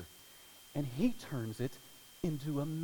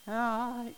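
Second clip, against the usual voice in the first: gasp of alarm; 9 semitones higher, 5 dB louder than usual. Retold or imitated. Mother sees her son on stage.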